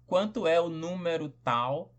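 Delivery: "Quanto é o número tal?" ending in a clear rise; question intonation. Shown as a demonstration. Teacher to students showing the question's rising tune. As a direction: lift "tal" like a real question. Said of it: "a entonação da pergunta".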